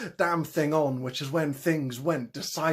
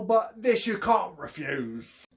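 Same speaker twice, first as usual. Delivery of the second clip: Cockney con man; slower than usual. Acted. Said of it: "His thick Cockney accent".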